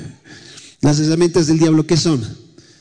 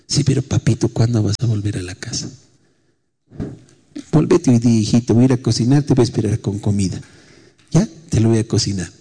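tender coaxing; 6 semitones lower than usual. Retold or imitated. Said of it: "No le grité".

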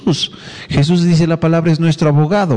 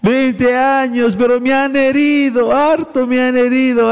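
mock self-pitying whine; 4 semitones higher than usual. Mocking a hurt believer.

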